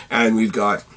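losing his voice, raspy and strained; voice giving out. Real, not acted. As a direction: talk through a worn-out, raspy throat. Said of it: "I'm sorry I'm losing my voice".

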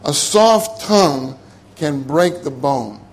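slow, deliberate verse reading; slow measured quote. Shown as a demonstration. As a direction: read it out slowly. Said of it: "Proverbs twenty-five fifteen says".

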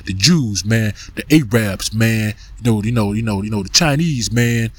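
low, droning complaint voice; mocking the brothers. Mocking brothers who always blame others, low and droning. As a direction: grumble it like an old gripe. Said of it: "they got Jews come, coming out their mouth".

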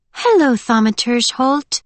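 airy, high-pitched greeting to the enemy; Winter, dreamy captive. A narrator's reading. Winter greets Thaumaturge Holt among soldiers, dreamy.

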